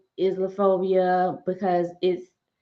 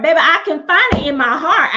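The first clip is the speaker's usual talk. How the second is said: 1 emphatic answer; 5 semitones higher, 7 dB louder than usual. Real, not acted. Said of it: "Can I find it in my heart".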